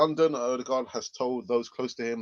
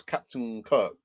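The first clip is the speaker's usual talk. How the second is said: mock Captain Kirk; slower than usual. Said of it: "I'm not sure why I'm talking like this".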